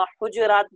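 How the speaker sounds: حجرات with no vowel after the j; j closing the first syllable of حجرات; silent middle letter. Shown as a demonstration. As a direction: say حجرات as huj-raat. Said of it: "ان کو ساکن بھی پڑھا گیا ہے".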